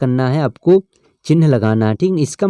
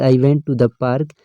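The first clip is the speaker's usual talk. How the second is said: sentence read out slowly, word by word; slow reading aloud; much slower than usual. Shown as a demonstration. Teacher reads the example sentence slowly to students. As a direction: dictate it slowly to the class. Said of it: "teacher reads example sentence".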